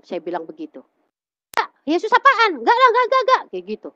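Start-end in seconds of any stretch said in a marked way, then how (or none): 1.9-3.4 loud, very high imitated rejection; scornful mock refusal. Mother rejects daughter's new faith, scornful retold outburst. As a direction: dismiss it outright as an outraged mother, rapid repeated refusals.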